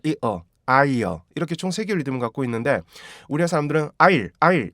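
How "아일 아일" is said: "아일" clipped into two beats, fast; wrong two-beat. Shown as a demonstration. Teacher showing the Korean two-syllable mistake. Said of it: "두 개로 만들면 안 돼요".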